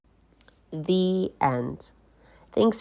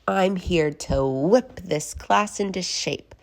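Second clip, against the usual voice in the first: stern witch; slower than usual. Acted.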